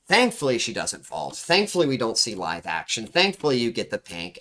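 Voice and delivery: thankfully leaned on at the start of each line; stress on thankfully. Shown as a demonstration. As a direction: hit the word thankfully each time, as a coach. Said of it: "I put emphasis on thankfully".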